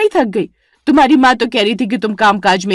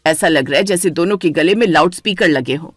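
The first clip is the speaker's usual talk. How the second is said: lower, scolding elder woman; a lower, lightly voiced matriarch breaking up a fight; stern mother-in-law; 3 semitones lower than usual. (सास की भारी डांटती आवाज़)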